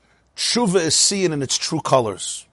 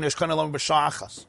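softer repeat; 7 dB quieter than usual. Retold or imitated. Repeating Rebbe's saying softer.

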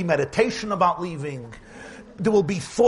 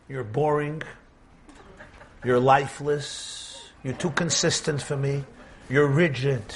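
lower, slow, listing each flaw with disdain; a hint of bored scorn, dragged out; moon lectures sun; 4 semitones lower than usual. Moon mocking the steady sun, lower and slow. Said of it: "look at the sun and say".

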